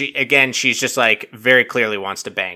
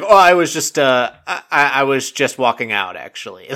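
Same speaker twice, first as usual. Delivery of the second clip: awkward excuse. Retold or imitated. Dale excusing himself after being caught, mock awkward. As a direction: imitate a blurted, then faltering cover story. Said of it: "makes it even more awkward".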